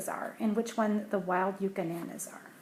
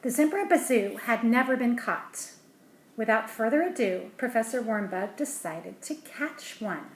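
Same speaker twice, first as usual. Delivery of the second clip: lively storybook read-aloud, a little louder; story narration; 3 dB louder than usual. A narrator's reading. Parent reading a picture book to a child, lively storybook voice.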